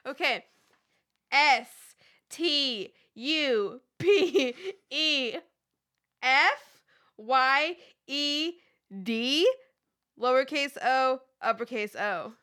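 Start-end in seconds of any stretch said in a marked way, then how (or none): 1.3-12.3 loud, slow letter-by-letter spelling. Shown as a demonstration. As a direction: spell each letter out deliberately. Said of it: "Let me start over".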